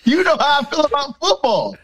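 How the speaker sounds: high, fast rant about football seats; heated rant. Pretend. Ranting at girlfriend over ruined game, heated high rant. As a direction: rant to her about paying for these seats, sky-high.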